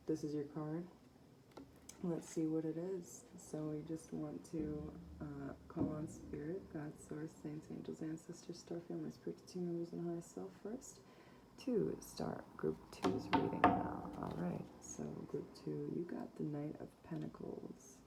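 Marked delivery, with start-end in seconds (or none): 3.4-14.1 invocation prayer. Acted. Calls on spirit guides.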